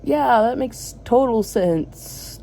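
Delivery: slow, dry sarcasm; sarcastic. Real, not acted. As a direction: drag it out sarcastically. Sarcastic reply to advice.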